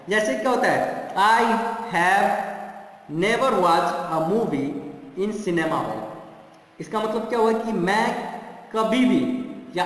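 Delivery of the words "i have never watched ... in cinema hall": slow, with "never" leaned on harder than the rest; stress on never. Shown as a demonstration. Teacher showing students where the weight falls, on "never". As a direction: hit "never" firmly and take the sentence slowly. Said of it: "नेवर word पे जोर देना है".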